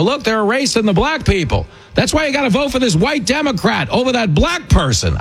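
high-pitched mimicry of a TV pundit; mock earnest pleading. Host imitating a politician on TV, mock earnest. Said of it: "get on T V with a straight face and go".

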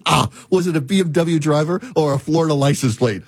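lightly voiced Australian AI voice; slight Australian accent imitation; mock Australian accent. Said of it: "this male Australian accent".

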